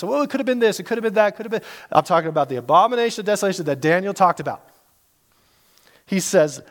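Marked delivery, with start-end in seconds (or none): 0.0-1.7 higher-pitched waffling, trailing off; mock speculating. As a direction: imitate someone rattling off guesses. Mimics people guessing at meanings.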